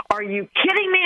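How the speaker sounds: high-pitched mock disbelief; panicked inventor. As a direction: retell it as an aghast inventor. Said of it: "share their panic attack".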